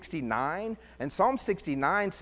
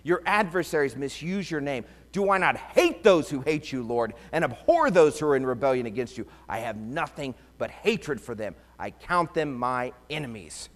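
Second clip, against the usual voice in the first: fervent psalm reading. Acted. Preacher reads imprecatory psalm aloud.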